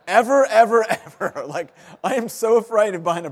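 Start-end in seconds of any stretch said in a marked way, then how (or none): 0.1-1.4 loud, high repeated ever; emphatic ever. Real, not acted. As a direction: hammer each ever home, half laughing. Emphatic insistence, never buying new.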